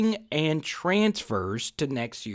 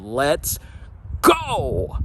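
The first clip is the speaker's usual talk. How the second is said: hyped shout. Real, not acted. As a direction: launch it with a rallying yell. Catchphrase launching the breakdown.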